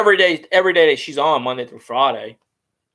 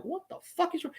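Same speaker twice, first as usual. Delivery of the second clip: mock exasperated host; 12 semitones higher, 16 dB quieter than usual. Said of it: "her body language is like".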